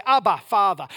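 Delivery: loud earnest call to the Father; fervent call. Retold or imitated. Disciples invited to call God Father. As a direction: cry it out with devotion. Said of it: "turn around and say".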